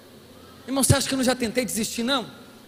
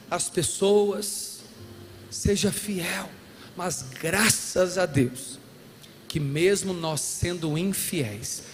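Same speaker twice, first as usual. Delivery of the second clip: very slow, measured, lower words; preacher slowing down over faithfulness, grave and deliberate; slow solemn preaching; 4 semitones lower, much slower than usual. Real, not acted. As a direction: let each phrase sink in.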